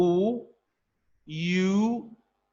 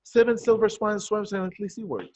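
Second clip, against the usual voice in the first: quick, even run through the tongue twister; speedy tongue-twister demonstration; fast tongue twister; 3 semitones higher than usual. Shown as a demonstration. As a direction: rattle it off as fast as you can. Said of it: "Try and say it as fast as you can".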